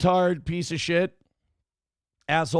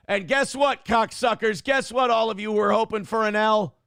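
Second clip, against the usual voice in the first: triumphant gloating; 4 semitones higher than usual. Real, not acted. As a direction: rub the win in their faces. Gloating at haters after win.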